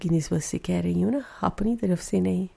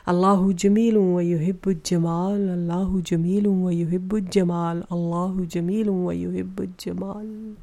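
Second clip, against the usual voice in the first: slow fading recitation; slower than usual. Real, not acted. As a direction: draw it out and let it fade. Recited hadith, repeated thrice.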